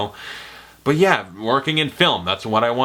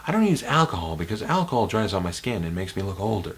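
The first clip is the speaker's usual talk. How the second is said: American Psycho quote. Retold or imitated. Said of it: "American Psycho".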